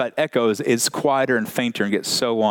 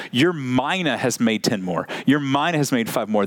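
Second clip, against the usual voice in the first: "Your mina" stressed, the rest falling away. Acted. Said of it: "put the emphasis on the master's mina".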